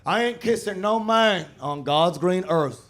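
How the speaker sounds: slow, lightly put-on Texan drawl; a hint of a homophobic good ol' boy; Texan buddy voice. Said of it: "he was like".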